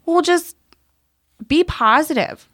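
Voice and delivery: high-pitched mock pep talk; imitated dismissive mom. Mom answering her child's plea, mock-cheery imitation. Retold mom's dismissive advice.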